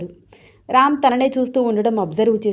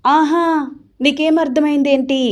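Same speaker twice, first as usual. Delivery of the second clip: higher and louder, hands on hips; jealous wife demanding an answer, higher and louder; angry challenge; 6 semitones higher, 5 dB louder than usual. A narrator's reading. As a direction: snap back at the teasing husband. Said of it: "కోపంగా రామ్ వైపు చూస్తూ అడిగింది".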